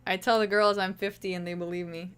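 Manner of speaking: attempted German accent, barely there; a weak stab at a German accent, owning he can't do it. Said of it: "I don't know how to do German accent".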